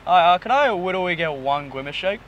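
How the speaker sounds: lightly lisped w-for-r voice, rising at the end; Widowy voice. Pretend. Customer ordering at the drive-through, Widowy voice. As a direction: order politely in the put-on voice. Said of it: "Put on your voice now".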